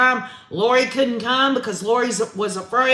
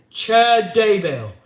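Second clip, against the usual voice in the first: calm; 3 dB louder, slower than usual. Retold or imitated. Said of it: "He then calmly says his name".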